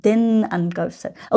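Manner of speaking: Den punched, phrase read slowly; slow drill answer with Den stressed. Shown as a demonstration. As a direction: hit the article Den in Den Einkaufszettel. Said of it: "was schreiben?".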